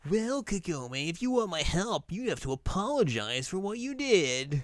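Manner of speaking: high, sing-song demanding voice; hammed-up petulant hero; Inuyasha. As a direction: haughtily insist on an apology. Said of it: "he shows up and is like".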